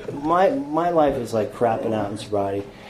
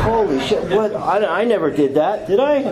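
high-pitched, hammed-up shock; incredulous retold protest; mock disbelief; 6 semitones higher than usual. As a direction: act out stunned denial, rising higher. Retells shock at unknown warrants.

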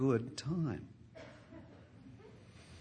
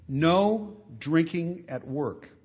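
stern boss; 7 dB louder, much slower than usual. Retold or imitated. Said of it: "they say".

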